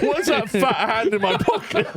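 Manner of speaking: high, slow mock puzzlement; pickpocket's victim. Victim noticing a pickpocket's hand, high mock voice. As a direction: draw it out high, as the robbed passer-by.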